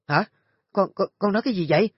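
high, fast stammering shock; a mother hearing terrible news. A narrator's reading. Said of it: "ngã người loạn choạng".

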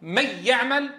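"من يعمل" run together as "mayy-ya'mal"; recitation example. Shown as a demonstration. Teacher asks students how we say it, merged noon. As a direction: say "من يعمل" with the n melted into a doubled y. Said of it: "هل نقول".

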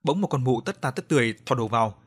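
ordinary delivery, nothing marked

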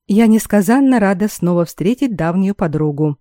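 ласково. Acted. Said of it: "ласково сказала королева".

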